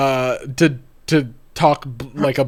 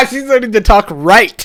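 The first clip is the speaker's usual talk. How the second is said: laughing while talking; 5 semitones higher, 6 dB louder than usual. Real, not acted. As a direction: giggle through the words. Mocking joke, laughing through it.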